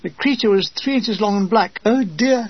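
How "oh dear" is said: female voice. Acted. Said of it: "said Dean in a female voice".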